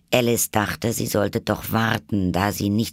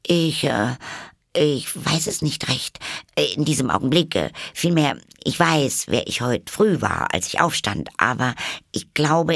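put-on high, hesitant girl's voice; shy girl; 7 semitones higher than usual. A narrator's reading. Alice to the caterpillar, shy and unsure. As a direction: stumble through it, embarrassed. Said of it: "etwas befangen".

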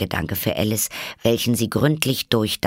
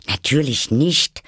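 high, loud, indignant Alice; 7 semitones higher, 5 dB louder than usual. A narrator's reading. Alice answers the Mock Turtle's washing question, indignant. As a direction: protest with a raised, offended voice. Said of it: "sagte Alice entrüstet".

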